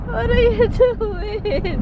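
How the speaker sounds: high, slow, giggling protest; laughing while tickled. Real, not acted. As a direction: squeal it through laughter. Being tickled by husband.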